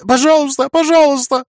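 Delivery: very high, whimpering plea; boy begs in panic; frightened pleading. A narrator's reading. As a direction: beg over and over in fear. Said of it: "бормотал паренёк".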